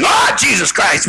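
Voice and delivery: mild mock curse; acted cursing. Someone cursing after getting hurt, mock exclamation. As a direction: spit it out like a swear after a knock. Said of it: "it's like cursing".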